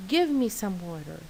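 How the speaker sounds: a blunt, bossy demand; least polite. Shown as a demonstration. Teacher modelling a rude demand for water, curt and bossy. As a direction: toss the request off like an order. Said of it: "I think it's the least polite".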